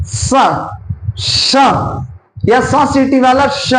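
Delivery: स and श held as separate demo sounds; teacher demonstrating सीटी वाला श; sounding out hisses. Shown as a demonstration. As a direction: show स, then श with a whistle-like hiss. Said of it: "जैसे स का उच्चारण करें".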